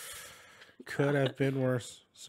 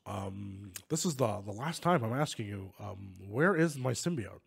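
put-on Elon Musk accent; 5 semitones lower than usual. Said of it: "do an Elon Musk accent".

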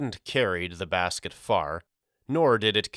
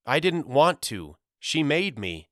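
put-on higher-pitched boy's sincere protest; earnest; 6 semitones higher than usual. A narrator's reading. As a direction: explain it earnestly to a doubting brother. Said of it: "his answer and his earnestness".

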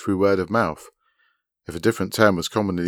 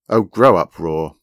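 exasperated scolding; 8 dB louder, slower than usual. A narrator's reading. Rainey to a squeamish boy, exasperated. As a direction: scold him for being childish.

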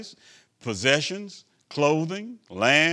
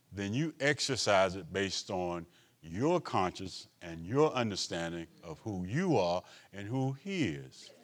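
lower, softer, measured aside to the congregation; earnest pastoral aside; 6 semitones lower, 6 dB quieter than usual. Real, not acted. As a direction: step out of the sermon and explain it quietly. Solemn aside, the preacher's self-declared commercial.

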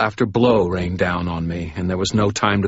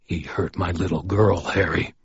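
shaking with rage. Acted. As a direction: hold the rage just under the words. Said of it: "His voice shook with barely repressed rage".

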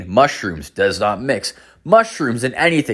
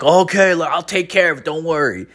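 lightly imitated dad, higher pitch; reassuring dad; 7 semitones higher than usual. Dad telling daughter don't worry, lightly voiced higher. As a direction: soothe her in a raised voice.

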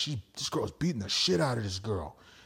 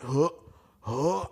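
dry heaving; 2 semitones higher than usual. Retold or imitated. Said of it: "like, dry heaving".

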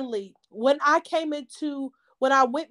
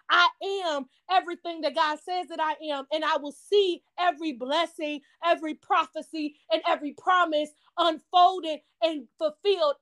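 steady, firm faith declaration; a fervent but unshouted affirmation; spoken declaration. Shown as a demonstration. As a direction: proclaim it like a prayer of defiance. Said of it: "you might have to say that every single day".

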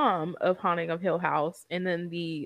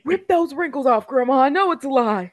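loud, high mock yell; playful hammed-up outburst; mock shout; 8 semitones higher, 12 dB louder than usual. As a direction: bark it at the screen like you caught her. Voicing someone yelling at TV character.

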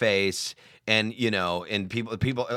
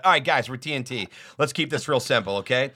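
program director voice; 4 semitones higher than usual. Retold or imitated. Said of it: "He's like".

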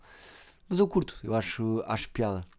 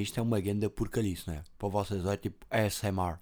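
eating while talking; mouth full. Real, not acted. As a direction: chew between words. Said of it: "estou aqui a comer".

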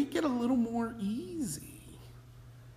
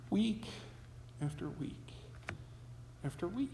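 "week after week after week" dropping much softer and lower each time; fading repetition; 3 semitones lower, 14 dB quieter, faster than usual. Acted. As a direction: let each "week" fade away, softer every time. Repeated phrase trailing off.

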